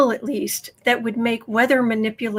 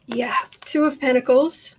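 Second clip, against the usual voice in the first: whisper. Real, not acted. Whispered card reading.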